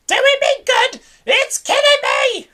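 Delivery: high, loud pained protest; furious scream. A narrator's reading. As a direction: shriek it like you're dying. Grandma screaming back at George.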